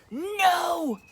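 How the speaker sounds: loud defiant refusal; stubborn no. Acted. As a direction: refuse like a sulky child. Ned refuses tea.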